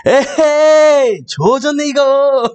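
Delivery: the right take: stretch "에헤이" and say "조졌네"; mother's dismay, corrected. Retold or imitated. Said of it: "내가 왜곡했다".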